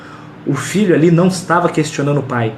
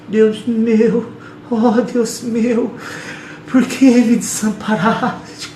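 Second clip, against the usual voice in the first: higher, slow, drawn-out mock wail; mock feeble lament; 6 semitones higher, much slower than usual. Shown as a demonstration. Preacher mocking how people read Jesus' cry, slow drawn-out mock lament. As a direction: ham up a weak, pitiful prayer. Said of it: "A gente lê falando assim".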